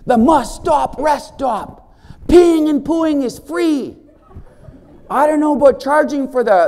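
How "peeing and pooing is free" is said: slow and louder, laughing through it; chuckling joke; laughing delivery. Real, not acted. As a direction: laugh out the punchline. Joke about free rest stop.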